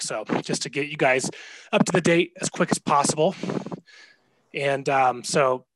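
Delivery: panting between words, out of breath. Real, not acted. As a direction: talk while still catching your breath. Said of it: "sorry, I'm out of breath".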